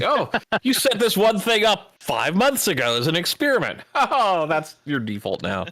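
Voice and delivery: high, sing-song sarcastic mimicry; mocking program voice. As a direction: laugh through a snide imitation. Mocking OBS as a smug program.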